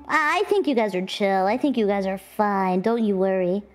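ordinary talk

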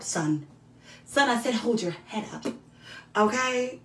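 gentle encouraging mother voice; tender mother. Pretend. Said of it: "mother encouraging son".

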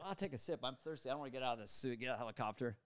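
low, soft throwaway mutter; quiet aside. Retold or imitated. Thirsty actor in the helicopter to himself, quiet aside. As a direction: drop right down, talking to himself. Retells his muttered thought.

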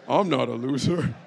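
low-voiced start then a loud shout; with bass in the voice. Shown as a demonstration. Preacher telling the ladies to say it with bass, then shouting. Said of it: "Say it with some bass in your voice".

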